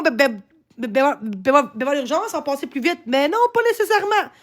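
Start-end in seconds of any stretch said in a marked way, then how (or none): 0.0-3.0 mocking. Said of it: "on dit à moi".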